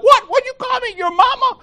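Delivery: high, offended mock outrage; a hint of a playground retort; indignant comeback. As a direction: play it insulted and high. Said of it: "I'm like".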